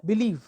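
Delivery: बिलीव with the weight on लीव; stress on second syllable. Shown as a demonstration. Teacher shows the stressed syllable, बिलीव stressed on लीव. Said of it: "is said with greater energy".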